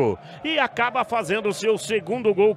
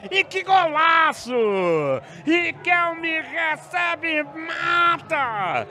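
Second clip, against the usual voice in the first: explosive goal commentary; 5 semitones higher, slower than usual. Real, not acted.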